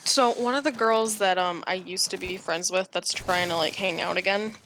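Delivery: talking through hiccups; speaking with the hiccups; hiccuping. Real, not acted. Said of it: "Oh no, I got the hiccups".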